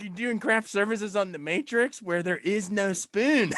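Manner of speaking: laughing. Real, not acted. Co-host jokes, laughing through.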